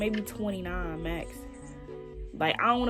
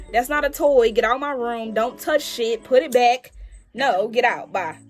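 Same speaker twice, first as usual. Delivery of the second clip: scolding; 6 dB louder than usual. Pretend. Acting out scolding a kid.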